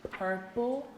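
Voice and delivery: lively read-aloud to the class; story narration. Acted. Teacher reading a picture book to her class, animated storytelling. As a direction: read the story brightly to children.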